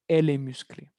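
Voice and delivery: "musclée" ending on é, extra E mute; same sound. Shown as a demonstration. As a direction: answer with "musclée", unchanged in sound. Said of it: "es lo mismo".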